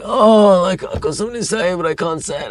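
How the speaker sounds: high-pitched, hammed-up anguish; mock dramatic. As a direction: imitate someone making a big scene. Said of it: "she's, like, being really dramatic".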